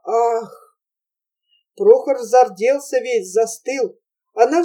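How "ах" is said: crowd gasp. A narrator's reading. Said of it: "тысяча грудей в церкви выдохнула".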